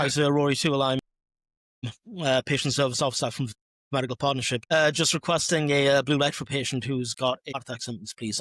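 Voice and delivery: lightly put-on posh phone voice; slightly posher voice. Shown as a demonstration. NHS worker requesting a blue light on the phone, slightly posh. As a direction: put a bit of posh edge on a brisk official request. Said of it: "put on a little bit of a posher voice".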